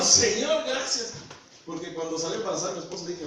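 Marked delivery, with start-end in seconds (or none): 0.0-1.1 loud, raised cry of gratitude; retold burst of thankful joy; jubilant thanks. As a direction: call it up to God, overjoyed. Retelling joyful thanks at son's birth.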